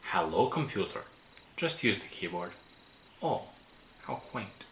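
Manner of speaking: wobbly mock Scottish accent; a loose attempt at a Scottish accent; lightly put-on, wandering Scottish accent; Scotty. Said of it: "I know my accent flies all over the place".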